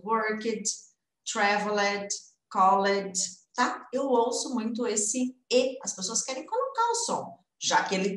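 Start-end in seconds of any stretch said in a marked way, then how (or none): 0.1-3.1 "worked, traveled, called" with the written E sounded in the endings; learners' mispronunciation. Retold or imitated. Teacher imitating students' common mistake, mispronounced -ed endings. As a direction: imitate learners voicing the -ed as a syllable.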